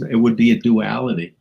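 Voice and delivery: ordinary talk, nothing marked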